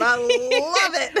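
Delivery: slow, laughing fondly. Real, not acted. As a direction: laugh while saying it. Laughs at own story.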